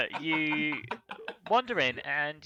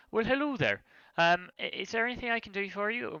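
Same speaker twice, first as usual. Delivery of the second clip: lightly voiced welcoming healer, quick; friendly healer; 3 semitones higher, faster than usual. Healer welcoming visitors who may have injuries, lightly voiced and friendly. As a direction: greet newcomers as a chatty healer. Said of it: "says to you".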